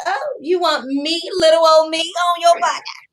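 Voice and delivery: playfully fake-modest, pitch up; coy mock surprise. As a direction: act flattered and coy. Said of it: "I was just like".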